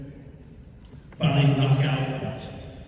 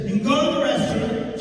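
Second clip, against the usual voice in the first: imitating the lady; 9 semitones higher than usual. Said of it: "she says".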